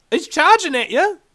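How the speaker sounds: urgent shouting warning. Real, not acted. Warning New Zealanders they will die, loud. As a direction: shout the warning to wake them up.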